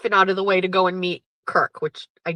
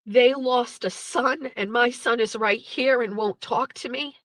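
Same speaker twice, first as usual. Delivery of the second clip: higher, mock-tearful mother's plea; imitated crying; 4 semitones higher than usual.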